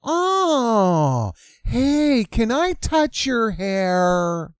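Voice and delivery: light, chirpy "Oh, hey" then slow; a hint of a sugary white woman asking to touch hair; imitating white woman. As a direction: put on a bright, nosy-friendly voice. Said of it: "woman that's gonna come up to you and say".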